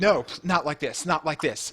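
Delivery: panicking voice. In a tabletop game scene, forcing a potion down her throat, panicking. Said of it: "panicking, like".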